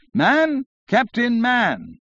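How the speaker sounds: high, slow shriek; screaming. A narrator's reading. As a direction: squeal the name across the room. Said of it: "Here screamed some little feminine interloper".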